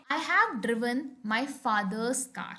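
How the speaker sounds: very slow, each word set apart; slow example sentence. Shown as a demonstration. Teacher reading an example to the class, very slow. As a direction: read it out word by word. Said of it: "कुछ और examples देखते हैं".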